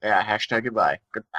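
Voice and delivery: lightly croaked frog voice; a hint of a croaking frog. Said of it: "like, a frog voice".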